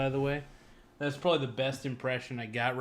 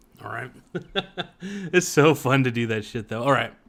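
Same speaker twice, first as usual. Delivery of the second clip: ordinary talk, nothing marked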